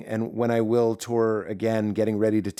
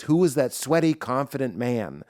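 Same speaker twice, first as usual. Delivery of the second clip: puzzled party-goer. Retold or imitated. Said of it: "I'm the guy who leaves a party and goes".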